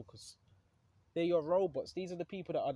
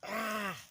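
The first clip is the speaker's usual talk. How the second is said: mock Satan scream; 6 semitones higher than usual. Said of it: "Satan screaming".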